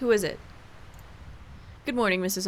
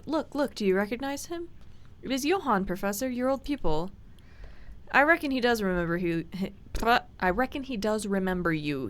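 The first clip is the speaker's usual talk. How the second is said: lightly voiced housekeeper. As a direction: welcome the doctor like a fussy old servant. Housekeeper presents the professor.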